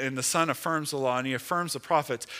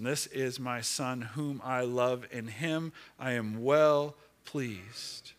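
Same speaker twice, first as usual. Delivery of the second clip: voice of the Father; slower than usual. Acted. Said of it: "It's the voice of the Father".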